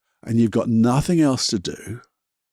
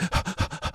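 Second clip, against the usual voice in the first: panicked gasp; 8 semitones higher, 7 dB quieter than usual. Shown as a demonstration. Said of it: "'cause when we panic".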